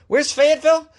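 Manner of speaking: high, exaggerated question; mock incredulous. Host feigning bafflement at the town with a high question. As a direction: act baffled by the name.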